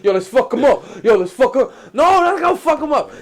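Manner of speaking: high, loud, laughing egging on; laughing hype. Retold or imitated. Drunk friends wanting to fight the driver, laughing loud. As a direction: egg them on through laughter. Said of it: "everybody's like".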